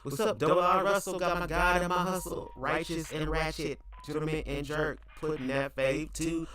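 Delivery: high, loud hype-man chant; hype shout-out. Acted. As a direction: pump up the crowd, chanting. Hyped shout-out to a viewer.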